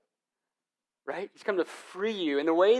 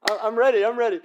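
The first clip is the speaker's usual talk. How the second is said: put-on eager kid; 7 semitones higher, 9 dB louder than usual. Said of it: "you're like".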